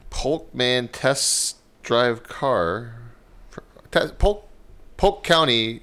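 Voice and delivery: stumbling first-time news reader; halting, slow, reading aloud nervously. Real, not acted. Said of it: "this is my first day reading".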